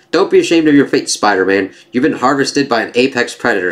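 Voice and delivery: gloating villain. Acted. Villain gloats over trapped hero.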